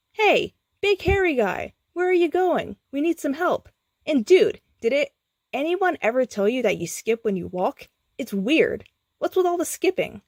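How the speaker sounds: very high, put-on brash kid voice; a cheeky teen heckling; goofy young guy. A narrator's reading. New character voice.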